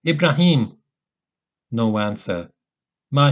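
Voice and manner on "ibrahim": raised, urgent cry into the dark; terrified call. A narrator's reading. Calling for his companion in the night, frightened. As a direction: call the lost friend in fear. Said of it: "called out, full of terror".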